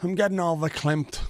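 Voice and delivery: high put-on Yiddish-flavoured lilt; mock verklempt. Streamer hamming up getting emotional. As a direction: camp it up, all choked-up mock.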